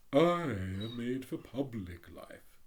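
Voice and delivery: hint of a haughty rocket; lightly voiced pompous Rocket. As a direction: read it as a vain firework showing off.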